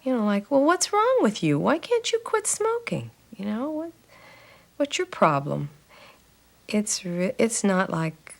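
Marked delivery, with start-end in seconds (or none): 0.5-5.7 higher, scornful mock nagging; a hammed-up holier-than-thou nonsmoker; mocking self-righteous. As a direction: ape the preachy critic, looking down on a smoker. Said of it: "very self-righteous".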